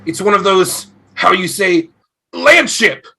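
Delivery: marveling at a strange machine; excited Viking. Acted. Viking ghost sees a car.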